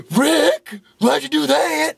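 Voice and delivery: mock shock. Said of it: "He was like".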